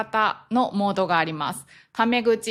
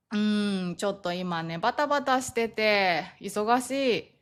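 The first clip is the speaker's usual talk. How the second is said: hesitant refusal; 3 dB quieter than usual. Acted. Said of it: "無理、ノーということです".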